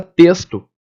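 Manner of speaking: "texto" said as "testo"; plain hissed s before the t in "texto"; s sound for X. Shown as a demonstration. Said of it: "como se fosse esse som de".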